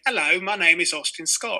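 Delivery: hint of a child's bad British accent; lightly mock a small boy's British accent; terrible British accent. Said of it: "seven-year-old British accent".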